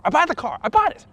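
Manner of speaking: mock-ecstatic buyer; elated. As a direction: climb into giddy triumph. Finally buying the car.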